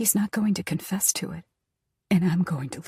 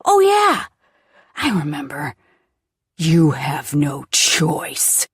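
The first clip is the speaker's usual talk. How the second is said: sinister taunt; 4 semitones lower, 6 dB louder, slower than usual. Acted. Villain cruelly reminding.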